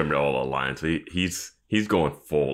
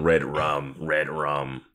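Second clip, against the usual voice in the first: creepy Shining quote; 2 semitones lower, much slower than usual. Retold or imitated. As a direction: intone it like a haunted child. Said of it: "From The Shining".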